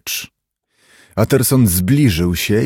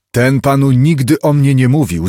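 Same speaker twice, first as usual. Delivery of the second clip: raised pitch, angry denial; indignant outburst, higher voice; angry cry; 4 semitones higher, 4 dB louder than usual. A narrator's reading. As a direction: call it out angrily. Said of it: "zawołał gniewnie Hyde".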